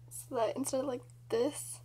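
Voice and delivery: talking with lip stretched open; lips pulled by fingers. Real, not acted. Seen 2: Fingers pull lower lip down to show braces, released by +1.0.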